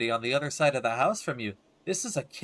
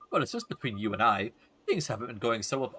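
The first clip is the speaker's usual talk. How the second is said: put-on gossipy old woman, confiding; 2 semitones lower than usual.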